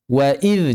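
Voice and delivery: "wa idz" with a thin, light dz; "wa idz" read with a clean thin dhal. Shown as a demonstration. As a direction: keep the buzz of "idz" light at the tongue tip.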